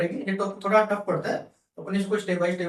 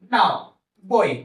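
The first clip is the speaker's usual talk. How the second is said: slow recap demo; 4 dB louder, slower than usual. Shown as a demonstration. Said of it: "ये अपने defaults हैं".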